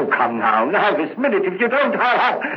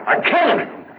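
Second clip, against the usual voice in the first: much higher, cracking cry of guilt; anguished cry; faster than usual. Acted. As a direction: blurt it out at last. Outburst of the confession.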